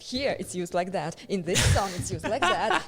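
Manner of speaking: showing friends a song proves the point; triumphant proof. Retold or imitated. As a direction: push the proof at them gleefully. Arguing with friends, sending links.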